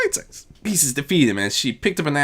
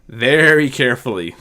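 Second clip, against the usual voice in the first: resigned; 4 dB louder than usual. Acted. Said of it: "the same controlled tone, hint of resignation".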